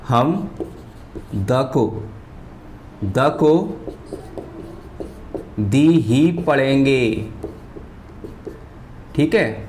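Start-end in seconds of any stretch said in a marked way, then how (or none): 5.6-7.3 दी ही पढ़ेंगे said slowly, with द read as a long dee; slow teacher dictation: दी, the as dee. Shown as a demonstration. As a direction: spell out दी, dee, slowly while writing. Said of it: "द को क्या पढ़ेंगे".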